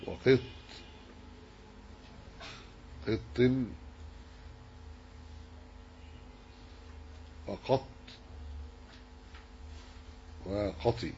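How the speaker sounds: careful demonstration of the endings, finishing وقطي on an i; variant forms. Shown as a demonstration. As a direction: list وقط، قط، وقط، وقطي one by one with changing vowels. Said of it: "وأما قط ففيها لغات".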